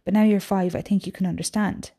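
reading a novel aloud to class; story reading. Acted. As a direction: read the passage with expression. Teacher reads novel aloud.

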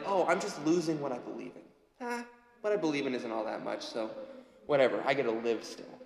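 quick, offhand shrug of a quote; mock dismissive. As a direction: lightly voice someone brushing it off. Voices the world shrugging off beliefs.

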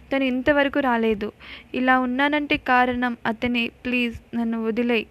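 a touch of tears, understated; mildly weeping as he begs; crying plea. Acted. Anand begs Sheshayya for his life, mildly tearful. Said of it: "అంటూ ఏడుస్తాడు ఆనంద్".

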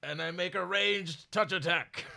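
lightly voiced dragon reading; a hint of a slow dragon. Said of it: "also narrating this as I".

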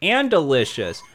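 talking while crunching chips; munch chips between words. Acted. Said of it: "that was so wonderful".

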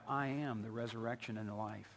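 low, softened quote of Jesus; solemn declaration. Acted. Preacher quotes Jesus to the congregation, solemn and low.

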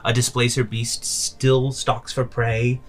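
put-on slow, emphatic old witch; slow crone argument. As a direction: lay out each creature deliberately. Baba Yaga's speech.

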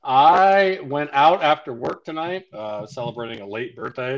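tipsy. Real, not acted. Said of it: "So if I sound, uh, little, little tipsy already, you're right".

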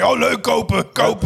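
high, gushing shopping voice; excited wife impression. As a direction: gush like an eager shopper. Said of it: "Die bij alles zei".

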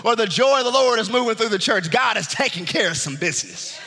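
driving, emphatic preacher delivery; fervent preaching. Real, not acted. Preacher urging church to rejoice, fervent preaching.

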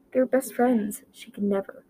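heavy voice rising high; heavy, high-pitched voice. Acted. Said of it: "voice heavy and high-pitched".

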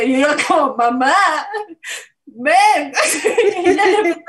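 loud, high call to mom, almost crying; overwhelmed call for mom; excited call. Retold or imitated. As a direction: shout for mom in disbelief. Calling mother excitedly.

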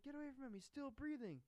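high-pitched mock warning; hammed-up high shout of alarm; Loomis. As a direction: insist urgently in an imitated yell.

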